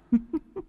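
high, soft cackle; cackling ghost laugh. Acted. Ghost girl cackling at him. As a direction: cackle quietly and wickedly. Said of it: "Cô ta cười khành khạch".

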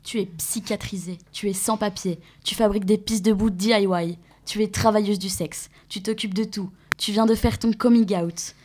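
spoken-word list, each line landing down; manifesto reading. Acted. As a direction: carry on the chant of the text. Second voice of the reading.

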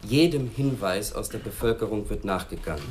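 "jedem" repeated with firm weight at the start; stress on JEDEM. Acted. Chief briefs the task force, stressing "jedem". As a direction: hit "jedem", then let the sentence fall away. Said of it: "ich betone".

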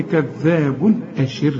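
slow كذاب أشر, clear n before the hamza; no ghunna. Shown as a demonstration. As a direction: end كذاب in a crisp "bun", then a clean break into أشر. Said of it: "ما تغنش هنا".

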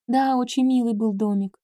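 ordinary delivery, nothing marked

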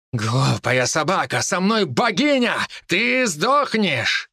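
high, slow furious roar; furious threat. Acted. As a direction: spit the threat out, rising. Emperor threatens in battle.

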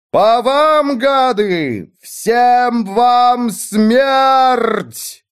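high, very slow, triumphant roar; mighty shout. A narrator's reading. The widow shouting death down at the fleeing servants, mighty roar. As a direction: hurl it down at them, stretching every word. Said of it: "могуче крикнула вдова".

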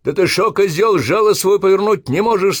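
high, loud furious scolding; angry yell. Acted. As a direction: scream at the clumsy recruit. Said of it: "вскричал Обух".

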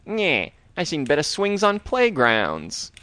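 slow, sneering dummy quip; lightly voiced cheesy villain joke; Slappy wisecrack. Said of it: "he makes the joke".

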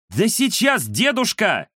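высокий, раздражённый юношеский голос; отмахнуться от деда; недовольный юноша. Acted. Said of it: "ответил недовольный юношеский голос". (недовольный внук отвечает деду)

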